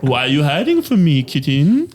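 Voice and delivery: slow, high, creepy singsong; creepy stalker voice. Retold or imitated. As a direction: taunt like a creepy hunter calling out. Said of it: "I have, like, a soundboard".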